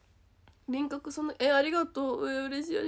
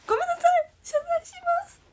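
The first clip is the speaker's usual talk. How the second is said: much higher, squeaky playful sorry; mock apology; 9 dB louder, much faster than usual. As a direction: apologise in a cutesy high voice, half joking.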